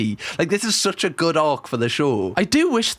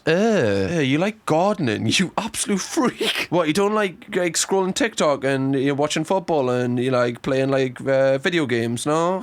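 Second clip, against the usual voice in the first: mock UK mockery. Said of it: "everyone goes".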